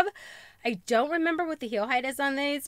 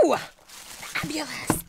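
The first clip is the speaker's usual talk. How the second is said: breathy whispered ooh of delight; awed whisper; 3 semitones higher, 5 dB quieter, slower than usual. Real, not acted. Unboxing shoes for viewers, awed whisper. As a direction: whisper it like you can't believe it.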